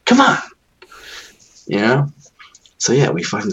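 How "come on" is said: exasperated. Retold or imitated. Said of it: "You're like".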